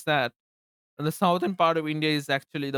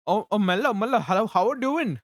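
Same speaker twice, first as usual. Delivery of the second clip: high, louder, surprised hello; excited greeting; 8 semitones higher, 4 dB louder than usual. Real, not acted. Greeting Mellow mid-stream, excited. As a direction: break off and hail a friend, pitch climbing.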